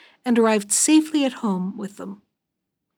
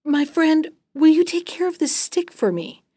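higher-pitched, friendly storybook request; lightly acted cordial voice; warm greeting; 7 semitones higher than usual. A narrator's reading. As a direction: greet a friend and ask a favor. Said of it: "greeted him warmly and said".

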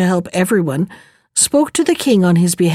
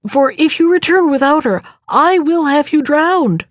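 raging threat; 6 semitones higher than usual. A narrator's reading. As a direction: spit out the threat, shaking with rage. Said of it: "nearly dumb from rage and excitement".

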